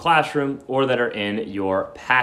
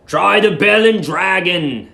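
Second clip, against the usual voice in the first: higher, louder, slow porter; porter's voice; 8 semitones higher, 7 dB louder, slower than usual. Acted. The porter points Billy down the road, loud and high. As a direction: call it out like a helpful porter. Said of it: "said the porter".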